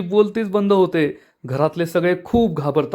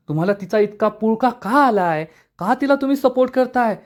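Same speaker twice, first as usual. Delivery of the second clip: angry demand; 6 semitones higher than usual. A narrator's reading. Wife angrily questions husband.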